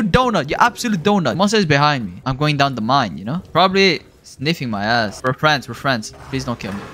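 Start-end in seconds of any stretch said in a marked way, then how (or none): 5.2-6.8 terrified horror victim. Real, not acted. Pleading with the monster.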